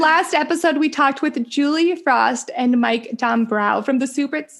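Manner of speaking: a hint of Minnesota accent; lightly Minnesotan vowels. Real, not acted. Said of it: "I was talking in my Minnesota accent earlier, and I just can't get out of it".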